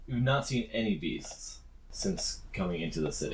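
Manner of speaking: ominous hushed whisper. Acted. GM telling the party the city has no beasts, ominous whisper. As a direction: breathe it out like a secret.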